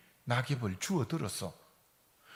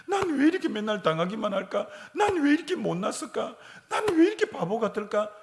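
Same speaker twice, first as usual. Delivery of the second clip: higher, louder mock moaning about oneself; self-pitying whine; 6 semitones higher, 4 dB louder than usual. Congregation member mocks own self-pity, higher and louder. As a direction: sigh it out as a sorry self-pitier.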